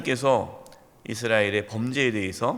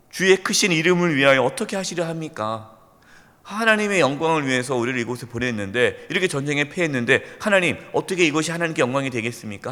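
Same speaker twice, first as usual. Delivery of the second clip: 1 complaining Joshua. Retold or imitated. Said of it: "원망하는 거예요".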